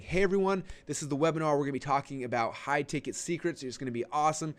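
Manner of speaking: high, bright, pumped host greeting; high-energy pre-show host welcoming the audience; hyped webinar intro. Shown as a demonstration. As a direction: sell the energy like a hype host. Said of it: "I like getting on and just saying".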